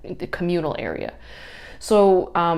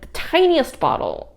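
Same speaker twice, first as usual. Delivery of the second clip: normal talking voice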